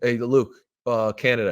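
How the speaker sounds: deadpan play call, no emotion; casually passing on the secret play; nonchalant. Retold or imitated. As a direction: toss it off like nothing. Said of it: "say it in the most, like, nonchalant way".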